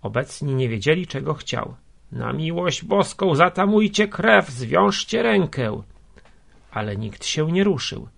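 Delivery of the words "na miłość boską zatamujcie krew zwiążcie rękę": high, raised imploring cry; desperate plea. A narrator's reading. Wounded man begging bystanders to bind his arm, desperate plea. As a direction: beg urgently, rising to a cry. Injured man begs for help.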